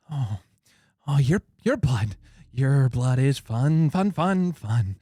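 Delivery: creepy vampire. Acted. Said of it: "He's just like".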